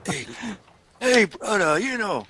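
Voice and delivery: high, hammed-up catchphrase call; own catchphrase voice. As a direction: toss off your trademark greeting. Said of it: "I said brother all the time".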